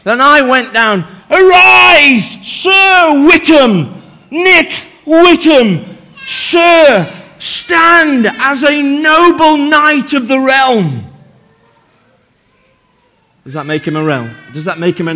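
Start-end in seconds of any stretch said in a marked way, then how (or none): 1.3-11.0 knight someone with grand ceremony; solemn regal knighting. Pretend. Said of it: "do an investiture and make somebody a knight".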